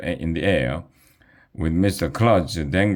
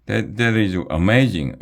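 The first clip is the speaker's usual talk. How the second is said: yelled; 3 semitones higher, 3 dB louder than usual. Acted. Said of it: "yelled Alexia".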